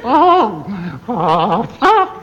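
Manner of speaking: high hammy fright; mock panic. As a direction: wail in comic dread. Wife panics over the spawning.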